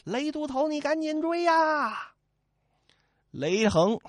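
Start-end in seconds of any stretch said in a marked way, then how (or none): 0.0-2.1 high, slow urging yell; raised, drawn-out urging; shouting to Lei. Acted. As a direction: call out to hurry him on. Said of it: "朱仝回头喊了一声".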